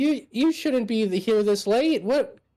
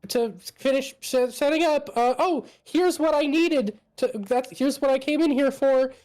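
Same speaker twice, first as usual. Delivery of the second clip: nervous nerd voice; 5 semitones higher than usual. Acted. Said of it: "on the surface, he's just kinda like".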